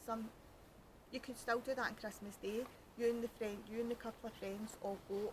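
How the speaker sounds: usual speaking voice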